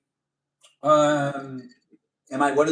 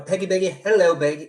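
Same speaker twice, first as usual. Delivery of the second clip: higher put-on Southern sweet-talk; Southern accent; 4 semitones higher, 5 dB louder than usual. Streamer trying a greeting for viewer's mom, Southern accent. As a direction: pitch it up with a Southern twang. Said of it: "has to be in a Southern accent".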